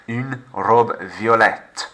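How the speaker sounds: "Une robe violette" slowly, with the final t of violette; slow model for repeating; slow feminine form. Shown as a demonstration. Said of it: "Making it agree".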